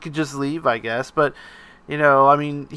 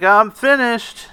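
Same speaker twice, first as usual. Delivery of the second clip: proud Daniel, slow; 7 semitones higher, 3 dB louder, slower than usual. Retold or imitated. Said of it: "And he's like".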